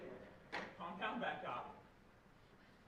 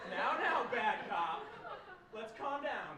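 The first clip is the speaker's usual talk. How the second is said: laughing; 2 semitones higher, 6 dB louder, slower than usual. Acted. Calming down bad cop.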